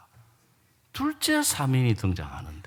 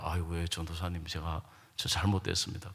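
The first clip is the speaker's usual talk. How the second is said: low, soft admission of fault; meek apology; 10 semitones lower, 7 dB quieter than usual. Retold or imitated. Brother answering the evangelist's rebuke, meek apology. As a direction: back down humbly, voice dropped low. Imagined husband meekly owning up.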